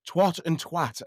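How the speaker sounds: first "twat" rhyming with "swot", second "twat" with short flat a; two vowels set apart in "twat and twat"; two twat pronunciations. Shown as a demonstration. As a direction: contrast "twat" with o, then "twat" with a as in "hat". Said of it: "are two different words".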